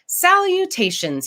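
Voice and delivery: a dinosaur's cheerful shout to his new class; shouted greeting. Acted. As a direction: call it out eagerly to the whole class. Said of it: "he shouted back".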